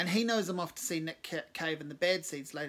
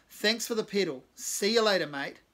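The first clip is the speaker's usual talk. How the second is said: loud dismissal; 4 semitones higher, 8 dB louder than usual. A narrator's reading. Cave dismissing Mark loudly.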